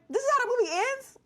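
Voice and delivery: high, fast, indignant disbelief; disbelieving. Retold or imitated. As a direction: squeal it in shock. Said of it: "I was like".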